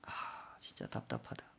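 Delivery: weary sigh, then a very soft, low mutter; exasperated muttering. Acted. Young employee thinking to himself about praying boss, exasperated mutter. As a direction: mutter it under the breath, fed up.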